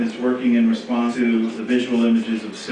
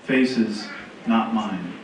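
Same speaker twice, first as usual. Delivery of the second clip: slow, measured verse with long pauses; poetry reading; slower than usual. Acted. Reading a friend's poem to a gallery audience, measured poetry reading. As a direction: read each line apart, letting phrase endings fall.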